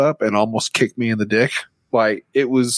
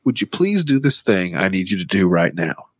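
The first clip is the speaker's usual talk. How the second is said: fake nice ask; 3 semitones lower than usual. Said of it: "I go".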